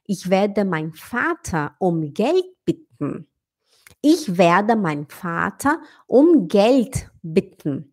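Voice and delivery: slow model sentence with a short, quick i in "bitten". Shown as a demonstration. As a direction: say "bitten" with a short i and swallowed ending. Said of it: "o bitten seria pedir".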